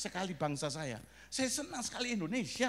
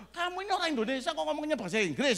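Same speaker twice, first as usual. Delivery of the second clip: high, loud, quick protest; mock scolding; 6 semitones higher, 5 dB louder, faster than usual. Preacher to English-speaking Indonesian children, mock scolding. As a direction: playfully tell them off in disbelief.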